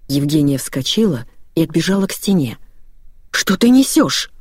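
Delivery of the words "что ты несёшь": higher, slower, stunned question; mother aghast at what her daughter says; shocked outburst. A narrator's reading. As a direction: recoil in disbelief.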